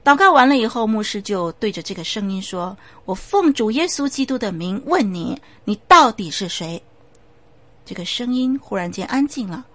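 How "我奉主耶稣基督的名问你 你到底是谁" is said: firm command, louder at the end; commanding pastor. Acted. The pastor demands in Jesus' name who the voice is, firm. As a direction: demand the spirit name itself.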